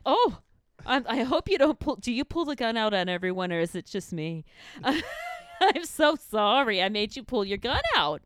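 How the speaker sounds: high, loud opening, hammed-up politeness; mock-meek apology. Retelling apology to the cop who pulled a gun, mock-meek and gushing. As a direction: imitate an over-apologetic, eager-to-please driver. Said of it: "I went so Better Home in Garden".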